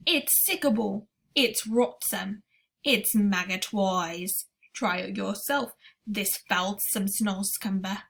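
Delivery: put-on slow, kindly old giant; a slow, friendly giant explaining; giant BFG voice. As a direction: drawl it out like a big gentle giant. BFG speaks in story.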